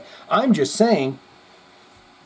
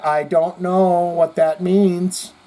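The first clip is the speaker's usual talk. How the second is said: stretched slowly, word by word; slow drawn-out repeat; 3 semitones higher, much slower than usual. Shown as a demonstration. Telling the viewer he doesn't get the comment, very slowly. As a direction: drag it out slowly and pointedly. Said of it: "All right, dear".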